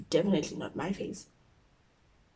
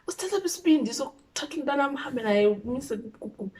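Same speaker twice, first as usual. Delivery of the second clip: angry mom in Siswati; 5 semitones higher, faster than usual. Retold or imitated. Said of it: "She said it in Siswati".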